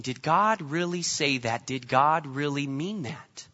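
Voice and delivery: slow, soft doubting questions; the serpent's slow, soft whisper of doubt. Retold or imitated. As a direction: sow doubt quietly, slowly. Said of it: "a simple question of just questioning".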